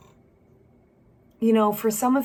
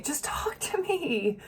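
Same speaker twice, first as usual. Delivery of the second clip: whisper; 6 semitones higher, 6 dB quieter, slower than usual. Retold or imitated. Pleading with partner, voiced.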